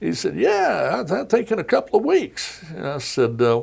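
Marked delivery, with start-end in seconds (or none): 0.3-2.6 a raised, breezy folksy president voice, lightly done; casually calling into the room, mock Southern ease; imitating Clinton. Reporter retelling Clinton popping his head in, light impression.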